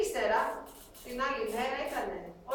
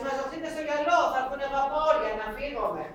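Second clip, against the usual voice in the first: retold town crier's call, louder and higher; 4 semitones higher, 6 dB louder than usual. Town crier calls refugees to the shore, loud call. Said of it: "Ντελάλης φωνάζει".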